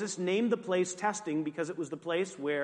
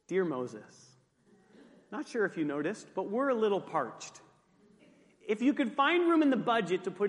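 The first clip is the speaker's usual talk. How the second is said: mock polite letter; 2 semitones lower than usual.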